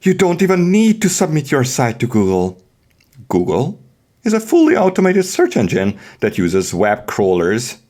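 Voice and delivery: hammed-up grand reading of a how-to guide; dramatic reading. Host reads the SEO guide to listeners, mock dramatic. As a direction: read the guide like an epic tale. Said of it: "now we are going to do dramatic reading".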